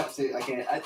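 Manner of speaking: ordinary delivery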